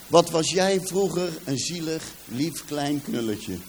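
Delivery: a softened, drawn-out sympathetic tone; tender pity. Retold or imitated. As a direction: say it like you pity the poor little boy. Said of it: "Hij zegt".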